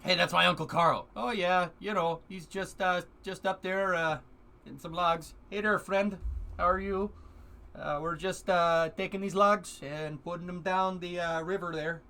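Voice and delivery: friendly hoser chatting from the water; lumberjack voice. Pretend. Voicing a photo of lumberjacks, jolly Canadian lumberjack.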